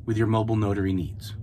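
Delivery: slow, gracious and polite; courteous email voice; service voice. Shown as a demonstration. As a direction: offer your help humbly, slowly. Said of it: "That's how I talk".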